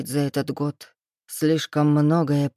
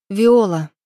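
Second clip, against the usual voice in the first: much louder sharp name; sharp correction; 3 semitones higher, 8 dB louder than usual. Acted. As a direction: correct him forcefully. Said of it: "поправила она". (героиня резко поправляет имя: громко)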